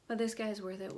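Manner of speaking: slightly breathless talking; out of breath. Real, not acted. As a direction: talk a bit winded, catching breath. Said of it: "Why am I out of breath?".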